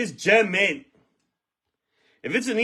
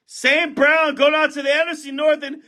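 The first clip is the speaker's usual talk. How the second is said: thrilled break-opener shouting the player's name; excited shout; 6 semitones higher than usual. Real, not acted. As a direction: shout it like you just hit the card. Big card pull, shouting names.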